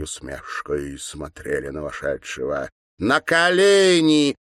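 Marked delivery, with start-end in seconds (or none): 3.0-4.3 put-on high, slow, imperious girlish order; commanding schoolgirls. A narrator's reading. Twin girls ordering the governor to kneel, high and imperious. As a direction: order him down like a cruel little mistress. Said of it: "произнесли девочки одновременно".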